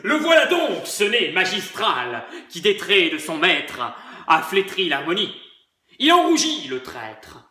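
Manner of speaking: hammed-up tragic lament; mock tragic sob. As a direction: parody of a sobbing tragedian. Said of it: "parodiant Pyrame en un sanglot". (sanglot tragique parodique)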